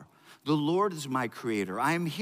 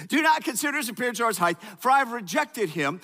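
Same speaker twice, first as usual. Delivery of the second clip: rushed reread; 5 semitones higher, faster than usual. Shown as a demonstration.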